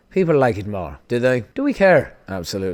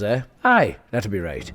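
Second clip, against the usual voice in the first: put-on Irish accent; much slower than usual. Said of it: "Amazon's Irish for some fucking reason".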